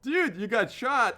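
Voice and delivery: high, loud, stretched-out announcement; hammed-up alarm, slow and loud; retold alarm shout. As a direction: imitate a friend yelling shocking news. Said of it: "And Lindsay goes".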